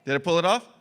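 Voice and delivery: laughing while asking about the accent. Real, not acted. Laughing at own recorded accent.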